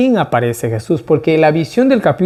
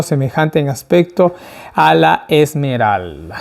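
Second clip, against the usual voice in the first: measured Bible reading; scripture reading. A narrator's reading. Preacher reading the vision of the throne, measured reading. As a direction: read the verse aloud steadily, slowing on the last words.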